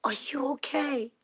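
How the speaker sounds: high, concerned woman asking honey are you okay; woman asking a crying delivery driver if she's okay; kind stranger. Retold or imitated. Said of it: "She said".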